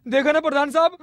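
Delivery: giggling mockery; gleeful taunt. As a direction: tease through barely held laughter. Laughing taunt at headman.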